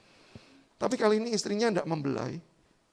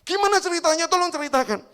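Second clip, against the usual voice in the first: higher, louder eager plea; eager asking; 9 semitones higher, 6 dB louder than usual. Acted. Children begging papa for the story, eager. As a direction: beg to hear the story.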